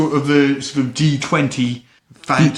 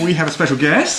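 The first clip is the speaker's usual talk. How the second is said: boxing ring announcer; 2 semitones higher than usual. Pretend. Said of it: "I'm still doing the boxing announcer voice".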